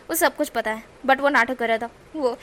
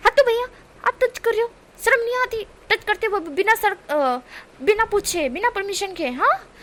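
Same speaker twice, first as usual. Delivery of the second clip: much higher, loud indignant scolding; shrill indignation; 8 semitones higher, 4 dB louder than usual. Acted. Wing to bodyguards, high loud indignation. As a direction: shame them for touching without permission. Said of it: "इस तरह से wing बोलता है".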